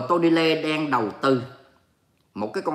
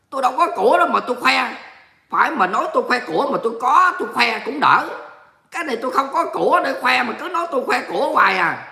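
higher-pitched playful protest; mock indignant; 5 semitones higher than usual. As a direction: protest your innocence, pretending to be annoyed. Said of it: "tôi giận lắm". (giả vờ giận dỗi, phân bua)

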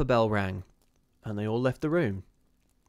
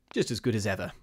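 pleasant; faster than usual. Acted. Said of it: "he said pleasantly".

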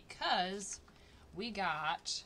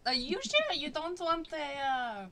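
higher, louder hammed-up Japanese accent; mock Japanese accent; 5 semitones higher, 6 dB louder than usual. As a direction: tease her in an exaggerated Japanese accent. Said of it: "Stop with the accent".

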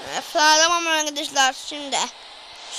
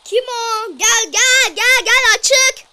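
calling out; 5 semitones higher, 7 dB louder, much slower than usual. Real, not acted. Calling visitor in from door.

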